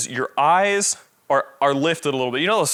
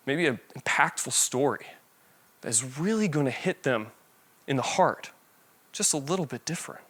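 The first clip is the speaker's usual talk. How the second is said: softer, meaningful-story voice; slowed and softened; 6 dB quieter than usual. Shown as a demonstration. Presenter showing how to soften for a story, much softer. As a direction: drop it down for the heartfelt bit. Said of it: "when you want to slow it down".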